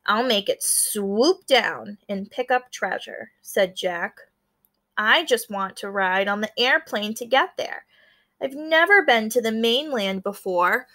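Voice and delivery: lively read-aloud with small character voices; story narration. A narrator's reading. Teacher reading a picture book to her class, storytelling. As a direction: bring the classmates' lines to life.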